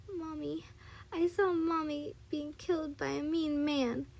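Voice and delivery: put-on understated tearful child's outcry; crying out. A narrator's reading. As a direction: cry it out with a touch of distress. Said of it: "she cried out".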